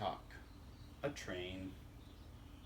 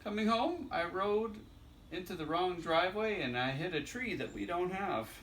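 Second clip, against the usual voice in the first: put-on lightly higher child voice; little critter's voice; 5 semitones higher than usual. Little critter telling dad about the crash, lightly childlike. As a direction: lift it like an excited little kid. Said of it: "Little critter says".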